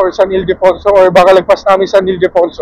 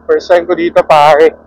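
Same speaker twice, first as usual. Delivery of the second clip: drawn-out, loud "pare, ang wild"; playful "pare" talk; 3 dB louder, slower than usual. Pretend. Rider to companion after the snake scare, playful drawled pare talk. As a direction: stretch the words in mock-dude amazement. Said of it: "Hindi ko alam ba't ganito na ako magsalita".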